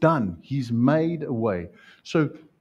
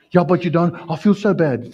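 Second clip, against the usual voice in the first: mock whine; 4 semitones higher, 4 dB louder than usual. Guilty believer whining.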